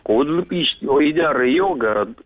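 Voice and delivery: Кудлы пишет said as reversed gibberish; backwards speech. Pretend. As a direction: read the phrase backwards, sound by sound. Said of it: "поздравить задом наперёд".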